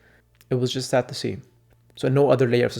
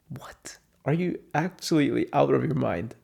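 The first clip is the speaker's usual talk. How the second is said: whispered disbelief; incredulous whisper. Real, not acted. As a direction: hiss it in stunned disbelief. Disbelief at the pay.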